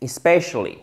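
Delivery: "Especially" with an open è in the second syllable; brief first i in "Especially", then stressed open e; short I, open E. Shown as a demonstration. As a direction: say "Especially" as "i-SPESH-uh-lee". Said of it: "Comme le E accent grave en français".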